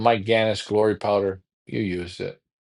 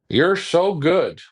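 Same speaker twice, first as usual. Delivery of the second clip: slow, higher mock praise; sarcastic; 5 semitones higher, slower than usual. Real, not acted. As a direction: drag out the fake compliment. Mocking rival.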